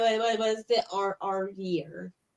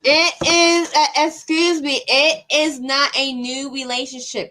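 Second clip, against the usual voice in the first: indignant correction; 4 semitones higher, 6 dB louder than usual. Real, not acted. Caller corrects host, interrupting.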